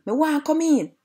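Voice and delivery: high, impatient demand; impatient shout. Acted. Dog outside the third piggy's house, shouting impatiently. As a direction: shout it impatiently, pitched well up. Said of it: "the dog shouted impatiently".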